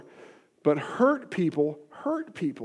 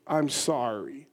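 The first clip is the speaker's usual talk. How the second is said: quiet apology; 5 semitones lower, 8 dB quieter, slower than usual. Shown as a demonstration. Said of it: "is to say these words".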